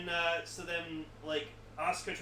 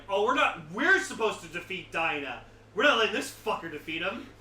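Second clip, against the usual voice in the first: indignant; 7 dB louder than usual. Retold or imitated. Aliens declare loudly.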